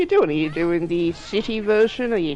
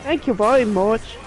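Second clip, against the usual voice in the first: outback Australian accent; 3 dB louder than usual. Shown as a demonstration. Demonstrating the outback ones' speech, outback accent. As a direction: mimic the British-leaning outback Australian accent. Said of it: "a lot of the outback ones actually sound like that".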